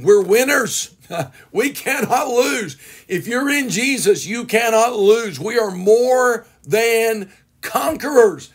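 emphatic preacher, stretching key words; rousing preaching. Real, not acted. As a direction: preach it slowly and triumphantly. Preacher exulting over the congregation's victory.

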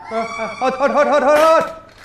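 rising laughing cry of hot. Real, not acted. Fire trick, laughing alarm.

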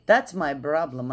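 ordinary talk, nothing marked

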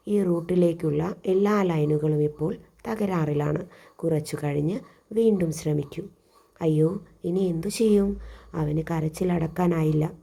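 put-on expressive children's story reading; story narration. A narrator's reading. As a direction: read the tale out with lightly acted characters. (കുട്ടികൾക്കായി ഭാവത്തോടെ കഥ വായന)

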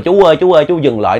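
calling out. Retold or imitated. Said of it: "kêu là".

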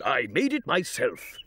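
proud. Acted. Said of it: "said the king proudly".

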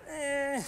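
mock indifferent noise; unimpressed "eh". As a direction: shrug it off with an "eh". Imitating an unmoved, doubting Thomas type.

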